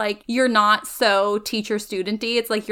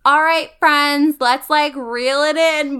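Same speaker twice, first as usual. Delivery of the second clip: calm aide; 3 semitones higher, 4 dB louder, slower than usual. Retold or imitated. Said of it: "my I A always has to be like".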